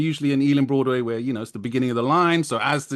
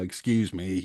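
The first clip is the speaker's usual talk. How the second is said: mock passive-aggressive, lower and quieter; 7 semitones lower, 6 dB quieter than usual. Acting out asking slow people on the tube to move: imitating a passive-aggressive tone. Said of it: "Passive aggressive".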